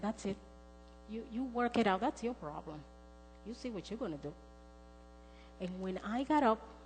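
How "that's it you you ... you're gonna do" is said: soft, resigned letting go; surrender. Retold or imitated. Surrendering the problem to God at night, soft and resigned. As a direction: hand it over quietly, giving up. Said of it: "sort of a surrender night".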